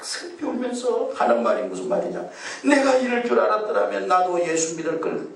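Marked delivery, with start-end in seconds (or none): 2.6-5.3 wailing regret. Retold or imitated. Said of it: "막 그러면서 막 우는 거예요".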